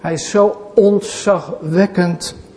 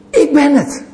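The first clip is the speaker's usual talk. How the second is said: higher, ringing declaration; voice of Jesus proclaiming; 7 semitones higher than usual. Acted. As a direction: announce yourself with divine authority. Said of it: "wat wij niet kunnen zeggen. En dat is".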